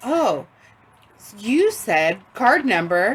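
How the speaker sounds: machine-like automated phone system robot voice. Retelling a Comcast phone call while entering a credit card, doing the Comcast robot voice. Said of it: "she's like in her regular robot voice".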